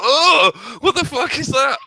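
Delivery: high, squealing mock valley girl voice; mock valley girl reaction. Mocking a valley girl accent to friends, high and squealing. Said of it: "as soon as you do that g-, accent, it's like".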